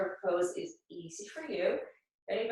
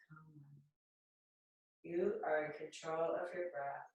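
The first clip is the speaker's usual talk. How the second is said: guided meditation. Acted. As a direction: lead the breath calmly, lingering between phrases. Guides mudra, breath and affirmations.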